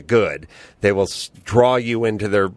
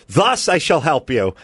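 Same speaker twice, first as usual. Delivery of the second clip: mock formal. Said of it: "right up there with".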